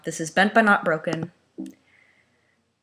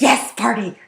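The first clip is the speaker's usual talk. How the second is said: mock party cheer; 6 semitones higher, 8 dB louder, slower than usual. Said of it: "it's all like".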